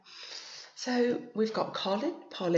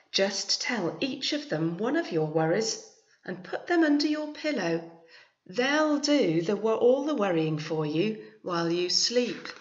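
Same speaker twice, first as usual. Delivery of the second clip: kind grandma; 2 semitones higher, 5 dB louder than usual. Acted. Grandma explains the dolls.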